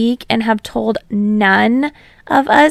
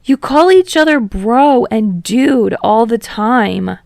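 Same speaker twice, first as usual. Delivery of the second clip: wailing; 5 dB louder than usual. Acted. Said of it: "Dinky wails".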